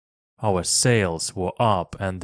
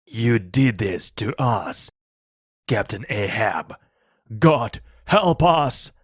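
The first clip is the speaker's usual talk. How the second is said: accusing shout. A narrator's reading. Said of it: "He shouted at Captain Ahab".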